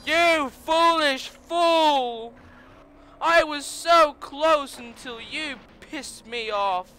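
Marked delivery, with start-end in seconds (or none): 0.1-2.3 hammy villain insult. Acted. Hammy insult at rival racer.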